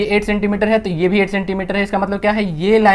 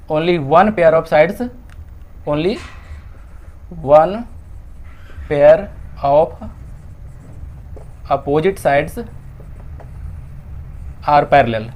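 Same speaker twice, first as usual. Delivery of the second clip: slow dictation; much slower than usual. Shown as a demonstration. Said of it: "dictating the answer to write down".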